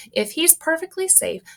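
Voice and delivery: high then loud snap; snapping. Acted. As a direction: snap at him. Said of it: "snapped Missus Gloop".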